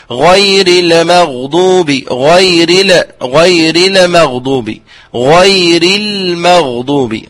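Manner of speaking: mock reciter bouncing the lam in غير المغضوب; slow imitation of reciters over-sounding اللام; imitating a reciter's error. Teacher imitates imams who jolt the lam. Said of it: "فيقول".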